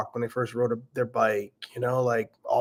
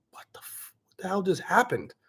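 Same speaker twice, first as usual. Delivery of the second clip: whispered disbelief, cutting off the swear; stunned whisper; 7 semitones higher, 4 dB quieter than usual. Retold or imitated. Dad stunned by daughter's swearing, whispered disbelief. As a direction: imitate being dumbstruck, all in a whisper.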